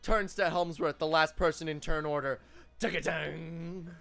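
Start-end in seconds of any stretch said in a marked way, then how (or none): 2.8-3.9 drawn-out vocal riff "taka-dang"; epic tune. Acted. Game master voicing the bard's tune, slow mock riff. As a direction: imitate an epic instrumental sting, slowly. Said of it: "an epic tune plays".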